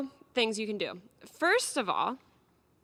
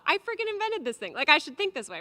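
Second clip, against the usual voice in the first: high, louder indignant retort; mock indignation; 6 semitones higher, 4 dB louder than usual. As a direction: scoff like it's obvious. Retold indignant reply.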